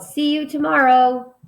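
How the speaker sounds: teacher hamming up a yell; mock yell. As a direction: shout a cheerful goodbye. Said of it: "She yelled".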